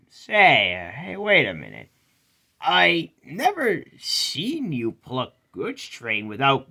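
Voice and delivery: lightly voiced suspicious crane; surprised and doubtful, questioning; Cranky's voice.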